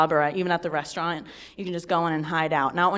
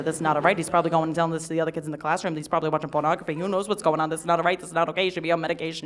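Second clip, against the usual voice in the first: fretful woman; 2 semitones lower, faster than usual. Retold or imitated. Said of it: "she's like".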